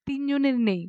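a sudden whisper; whispered answer. Acted. Child answering uncle quietly.

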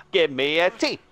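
cheerleader chant. Pretend. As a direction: spell it out like a pep rally. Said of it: "he's a cheerleader".

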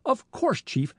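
smooth, high start falling away; smoothly. A narrator's reading. Frank needling the police chief, smoothly. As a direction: glide down smoothly from a high opening. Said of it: "said Frank smoothly".

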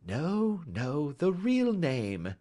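sweet, slow correction; sweetly. A narrator's reading. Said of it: "said Holmes sweetly".

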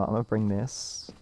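glitchy robotic voice; robot voice distortion. Real, not acted. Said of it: "you turn into the robot voice".

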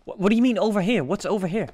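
incredulous questioning. Real, not acted. Questions teammate's vague directions.

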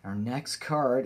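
ordinary talk

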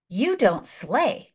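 slow deliberate words; slow solemn hatter. Retold or imitated. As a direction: lay each word down slowly.

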